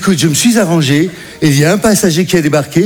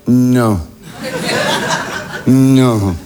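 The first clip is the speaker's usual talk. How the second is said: incrédule; 6 semitones lower than usual. Retold or imitated. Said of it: "je fais".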